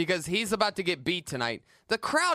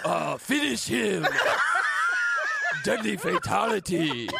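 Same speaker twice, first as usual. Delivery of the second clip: Mortal Kombat announcer. Retold or imitated. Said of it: "loading up Mike Lawrence's sound effects".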